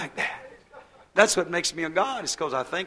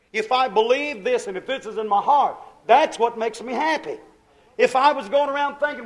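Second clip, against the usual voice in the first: raised, emphatic pulpit voice; animated preaching; 4 semitones higher, 6 dB louder than usual. Real, not acted. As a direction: press the point on the congregation.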